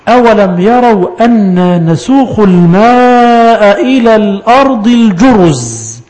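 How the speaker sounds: slow, drawn-out chanted recitation; Quran recitation. Acted. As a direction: recite the verse slowly, stretching the vowels. Quran recitation inside lesson.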